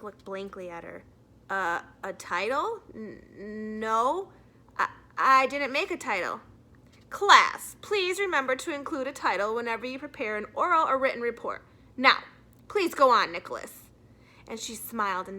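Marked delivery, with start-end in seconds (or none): 1.5-6.4 lightly voiced boy stammering, louder by the end; a caught-out schoolboy fumbling for words; boy caught without a title for his report; flustered boy. 7.1-13.9 a strict teacher making a point to everyone; teacher reminding the class to use titles. Acted. Mrs Granger lectures the class.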